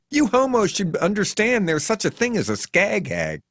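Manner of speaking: high, aggressive interruption; cutting in. A narrator's reading. Faye cuts off the hitchhiker, high and aggressive. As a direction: cut him off and lecture. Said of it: "she cuts me off with".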